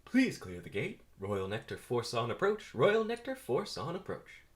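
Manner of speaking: lightly voiced gate announcer; a hint of tannoy announcement; loudspeaker announcer. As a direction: read it like a public-address call. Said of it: "Announcer over speaker".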